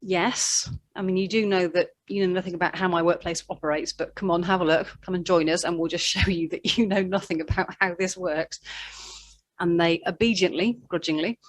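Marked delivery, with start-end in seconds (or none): 0.0-8.6 grudging. Acted. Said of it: "Simon Peter says grudgingly".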